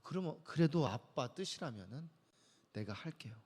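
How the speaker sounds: soft, fading, reluctant yes; reluctant surrender. Retold or imitated. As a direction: give in unwillingly, trailing off. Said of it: "정말 마지못해서 떠밀려서". (마지못해 떠밀려 하는 힘없는 대답)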